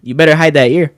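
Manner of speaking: mock Tyson popping up behind someone; Mike Tyson. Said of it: "when Tyson used to do those interviews".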